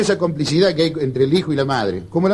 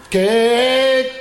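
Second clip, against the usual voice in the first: higher, halting mock stutter; stammering friend greeting; 6 semitones higher, much slower than usual. Stammering friend greeting his pal, halting and higher.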